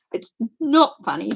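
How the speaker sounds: laughing through relief; half-laughing, insisting it's not funny; nervous laughter. Real, not acted. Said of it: "I know I'm laughing".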